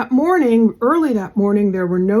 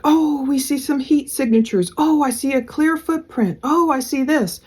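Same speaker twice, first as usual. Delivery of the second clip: lightly hopeful, a bit higher; 4 semitones higher than usual. Retold or imitated. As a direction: mimic searchers sounding upbeat. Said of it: "sounding a lot more hopeful".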